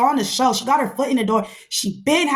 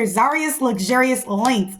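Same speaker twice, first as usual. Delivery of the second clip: Zaria's Luxurious Lengths spelled out slowly, word by word; careful slow; slower than usual. Real, not acted. Shouting out a friend's hair brand, slow careful. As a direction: take it slow like a tongue twister. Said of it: "That is a hard tongue twister".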